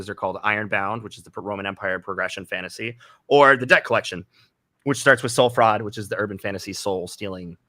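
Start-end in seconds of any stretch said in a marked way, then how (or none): 5.8-7.6 talking through hiccups. Real, not acted. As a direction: speak while hiccuping. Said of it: "I have the hiccups".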